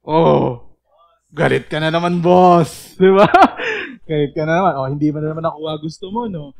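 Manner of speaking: loud playful ribbing of your angry self; teasing yourself. Shown as a demonstration. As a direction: poke fun at yourself, boss. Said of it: "Ang gagawin niyo doon". (malakas na pabirong panunukso sa sarili)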